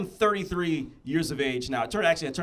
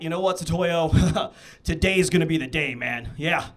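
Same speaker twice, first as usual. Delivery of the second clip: loud, higher self pep talk; pep talk to himself; 5 semitones higher, 5 dB louder than usual. Pretend. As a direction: hype yourself up in the mirror, louder and louder. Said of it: "give myself the greatest pep talk".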